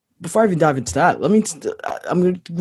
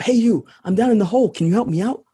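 calling up from a hole; 6 semitones higher, faster than usual. Acted. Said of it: "the guy in the hole shouts up".

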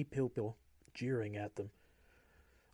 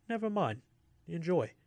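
sneering; 6 semitones higher, 4 dB louder than usual. A narrator's reading. Officer sneers at prisoner.

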